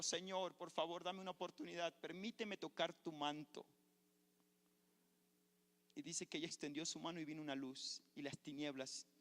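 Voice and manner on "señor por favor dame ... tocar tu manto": retold cry to heaven. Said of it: "pegó un grito al cielo".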